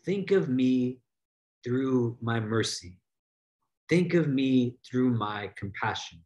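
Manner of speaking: grave, unhurried low delivery; solemn quoted address. Acted. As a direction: let each phrase settle low, with pauses between. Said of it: "Allah is telling you".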